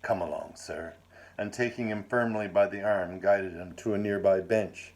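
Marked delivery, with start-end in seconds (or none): 0.0-0.9 softer, lower soothing words; gentle coaxing. A narrator's reading. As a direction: coax him gently like a patient servant. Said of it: "Gently as humanly possible".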